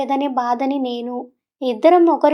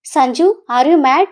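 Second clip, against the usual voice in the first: fed-up outburst; 4 dB louder, much slower than usual. Acted. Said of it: "విసుగు పుట్టి".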